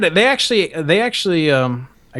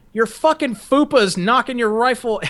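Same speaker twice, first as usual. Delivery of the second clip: retold yell; 8 semitones higher than usual. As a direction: imitate an instructor chewing out a recruit, half-volume. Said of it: "He yelled at one girl".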